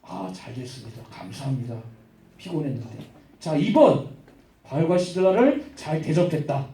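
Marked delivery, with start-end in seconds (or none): 0.0-2.9 low, very soft thanks; mock grateful praise. Owner thanks Paul in a joke quiz option, mock grateful praise. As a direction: murmur relieved thanks, low and understated. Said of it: "칭찬해줬다".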